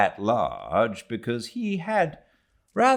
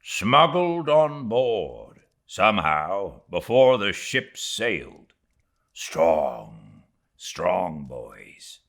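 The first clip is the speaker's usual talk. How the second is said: a hint of a stern mate; grim first mate; slower than usual. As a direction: keep it earnest and set. Starbuck's grim voice.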